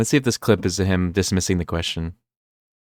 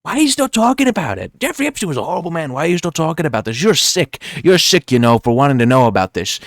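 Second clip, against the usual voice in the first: high, whiny mock Trump voice, fast in the middle; mock a defensive Trump, pitched way up; 8 semitones higher, 4 dB louder than usual. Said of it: "And then Trump goes".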